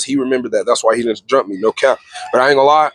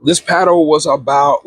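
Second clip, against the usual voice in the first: This paddle was about, said slower and more deliberately; slow down and restart the phrase This paddle was about; measured retelling of This paddle was about. Shown as a demonstration. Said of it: "hold on, fam".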